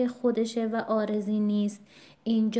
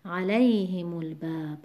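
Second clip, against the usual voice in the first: علیهم الباب with "lay" of علیهم stressed; a-LAY-himul-bab for علیهم الباب. Shown as a demonstration. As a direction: keep "himu" light in علیهم الباب.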